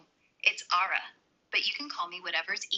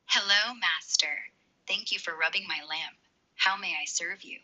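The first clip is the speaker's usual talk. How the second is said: sultry voice. Pretend. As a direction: play the seductive genie. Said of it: "You nailed it".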